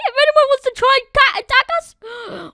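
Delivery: high, loud challenge; taunting. Real, not acted. Gamer taunting any attacker about his golem, cocky. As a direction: dare them.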